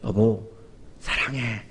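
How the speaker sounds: 낮고 부드러운 애정 표현; 귓가에 대고 나직이 사랑을 전하듯; 귀에 대고 속삭이듯. Shown as a demonstration. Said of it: "귀에다 대고". (낮고 다정하게 귓속말하듯)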